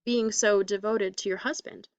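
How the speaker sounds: slowed, halting repeat of \"Being so devoted to your husband\"; hesitating. Acted. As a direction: say it again haltingly, unsure. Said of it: "He repeated in a hesitating manner".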